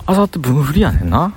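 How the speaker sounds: あさって分振りやねんな in Kansai intonation, lifting at the end; Kansai dialect. Shown as a demonstration. Vlogger practising Kansai speech for hosting, Kansai dialect. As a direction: say あさって分振りやねんな in casual Kansai dialect, final な rising. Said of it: "関西弁の喋り方今から作るわ".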